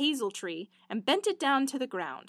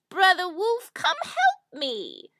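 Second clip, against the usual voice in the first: crying out loud to the wolf, voice breaking; a sobbing plea, loud at the start; wailing cry for help; 7 semitones higher, 6 dB louder, slower than usual. Acted. Trapped fox crying out to wolf for help, wailing. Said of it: "began to wail and scream".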